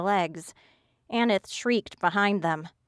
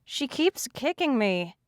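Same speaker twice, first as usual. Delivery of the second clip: high, whimpering whine; whiny complaint; 6 semitones higher than usual. A narrator's reading. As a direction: whine like a hurt child. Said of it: "pathetic whimpering sound".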